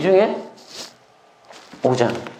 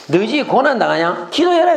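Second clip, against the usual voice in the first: high, brisk question and command; simple, blunt restating; 7 semitones higher than usual. Shown as a demonstration. Preacher boiling the verse down for congregation, blunt and simple. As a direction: toss out the answer on a sharply raised pitch. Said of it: "단순해서 좋아".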